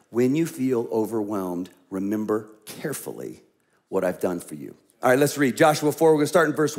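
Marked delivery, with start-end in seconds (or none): 0.1-4.7 hushed emphasis. Acted. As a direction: drop to an intimate low voice. Key line of sermon.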